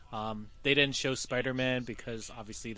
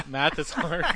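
laughing; 3 semitones higher, slower than usual. Real, not acted. Repeats toy phrase laughing.

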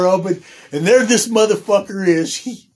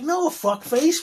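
higher, slow dismissive no; mock refusal; 9 semitones higher, slower than usual. Refusing a roommate the room, slow and dismissive. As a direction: brush him off with a slow no.

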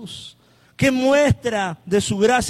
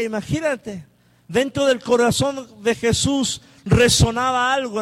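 usual speaking voice

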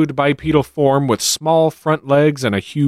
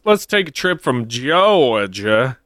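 dramatic announcer; 2 semitones higher than usual. Pretend.

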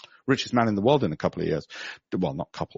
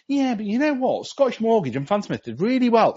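higher, mock objecting voice; doubting investor; 10 semitones higher than usual. Mock investor objecting to the host, higher. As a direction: play the smug sceptic pushing back. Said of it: "you might say".

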